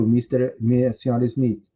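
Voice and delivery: ordinary talk, nothing marked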